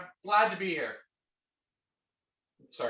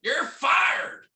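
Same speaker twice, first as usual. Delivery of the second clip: higher, shouted mock firing; mock boss; 6 semitones higher, 3 dB louder than usual. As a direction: play the angry boss.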